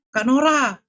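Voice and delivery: retold crying call. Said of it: "nangis dia".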